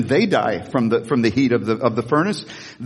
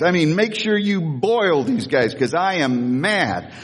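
mock tantrum; slower than usual. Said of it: "He's having a tantrum".

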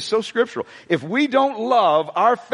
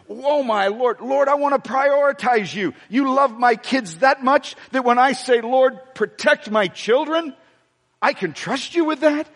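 lightly acted prayer, pitched higher; heartfelt prayer; 6 semitones higher than usual. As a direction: plead to the Lord in a raised pitch. Acting out a parent's heartfelt prayer.

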